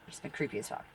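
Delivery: whispered aside; breathy creeped-out whisper. Real, not acted. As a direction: hush it like a secret.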